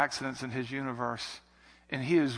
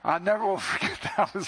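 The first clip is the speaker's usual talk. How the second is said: higher, laughing through it; 6 semitones higher than usual. Real, not acted. Pastor still amused by the tech guy's joke, laughing. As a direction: let the laugh break the line.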